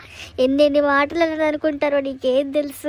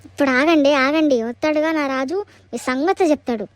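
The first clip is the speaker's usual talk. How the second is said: defiant call. Acted. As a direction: shout it at them as a threat. Latha threatens the neighbours.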